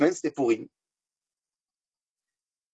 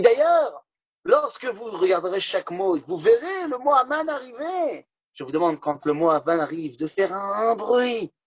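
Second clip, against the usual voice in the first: preaching rabbi; 5 semitones higher than usual. Acted. Rabbi continues instructions.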